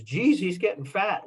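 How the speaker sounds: high, offhand put-on voice; blunt man voice. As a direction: toss it off like a rude passerby. Passerby's blunt comment, voiced.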